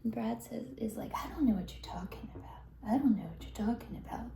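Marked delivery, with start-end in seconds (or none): 1.1-4.3 quick, repeated brush-off; rapid denial. Retold or imitated. Brad fending off the boyfriend's accusations, rapid denial. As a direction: rattle off the denial in a hurry.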